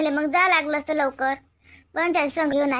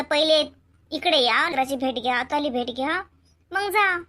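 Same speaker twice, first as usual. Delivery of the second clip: retold advice; 3 semitones lower than usual. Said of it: "पण म्हटलं".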